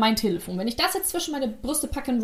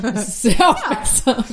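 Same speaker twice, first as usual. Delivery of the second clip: laughing; 4 dB louder, slower than usual. Real, not acted. Sarcastic thanks amid laughter.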